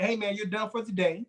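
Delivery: low, steady guard sending him out; calm guard. Retold or imitated. Guard telling an angry man to leave, low and steady. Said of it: "I say".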